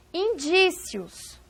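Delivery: Indícios stretched slowly for the class; slow reading of the word. Shown as a demonstration. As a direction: read Indícios out slowly, like a teacher. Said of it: "Qual é a sílaba tônica?".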